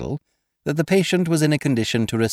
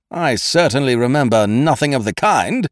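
severe; 6 semitones higher, 6 dB louder than usual. Acted. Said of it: "he said severely".

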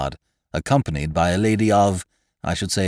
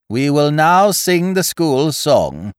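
icy; 11 semitones higher, 7 dB louder, slower than usual. A narrator's reading. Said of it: "rising like an iceberg".

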